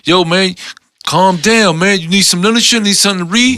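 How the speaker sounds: a lightly voiced stranger offering something to read; stranger's voice.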